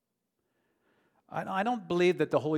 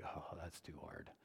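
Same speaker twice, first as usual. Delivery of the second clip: hesitant; 7 semitones lower, 18 dB quieter than usual. Retold or imitated. Retelling his own reluctance.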